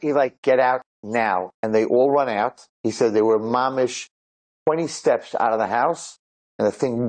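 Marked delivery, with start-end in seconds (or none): 0.4-1.5 slow, measured retold order; grave command. Mysterious figure orders soldiers out, grave command. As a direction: draw out each word as a warning.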